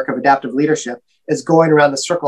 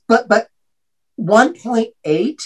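incredulous; 5 semitones higher, slower than usual. Retold or imitated. Professor incredulous at GPA.

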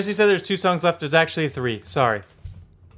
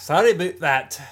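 lightly put-on Scottish accent; mock Scottish. Co-host repeats the accent game, mock Scottish accent. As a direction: toss off a Scottish apology. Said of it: "Uh, Scottish?".

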